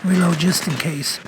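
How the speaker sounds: "reload" said as "weeload", gum in mouth; chewing gum. Real, not acted. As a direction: mumble through a wad of gum. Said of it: "I got gum in my mouth".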